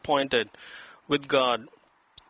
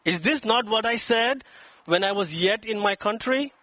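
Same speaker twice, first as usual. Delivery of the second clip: self-justifying; 3 semitones higher than usual. Acted. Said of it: "he's justifying himself".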